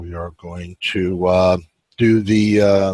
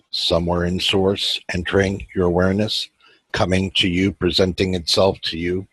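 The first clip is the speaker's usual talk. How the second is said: measured meditation guide, long pauses between phrases; even, unhurried meditation voice; guided meditation. Acted. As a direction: guide listeners inward, leaving space after each phrase.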